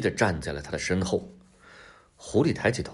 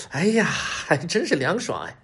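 higher, lightly voiced sigh of relief; a touch of delighted relief; refreshed fox; 8 semitones higher than usual. A narrator's reading. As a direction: relish the coolness in a fox voice. Fox refreshed by cool stream.

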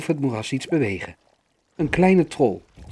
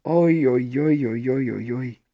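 worried groaning. A narrator's reading. Worried troll groans again.

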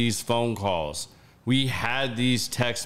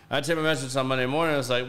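ordinary delivery

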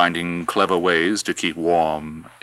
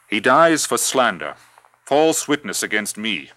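roaring tyrant king; 5 semitones higher, 6 dB louder than usual. Acted. Herod condemning John.

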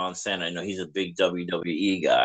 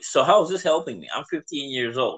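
higher-pitched, questioning complaint; retold teenage protest; 5 semitones higher than usual. Fifteen-year-old questioning the church beach trip, retold protest. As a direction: replay your younger self objecting, pitched up. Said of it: "I'm like".

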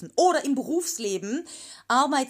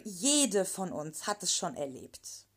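ordinary talk, nothing marked

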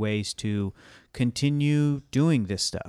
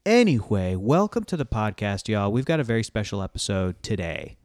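announcing big news. Real, not acted. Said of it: "This is incredibly exciting".

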